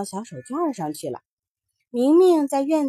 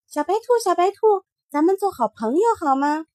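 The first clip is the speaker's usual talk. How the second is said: put-on child's voice; 6 semitones higher, faster than usual. Mingming talks to the rabbit.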